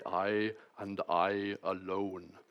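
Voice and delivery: slow, lightly voiced old Welsh preacher; drawn out like the old Doctor, but close to his own voice; a hint of Lloyd-Jones, very slow; Martin Lloyd-Jones impression. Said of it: "perfect, perfect impersonation of that".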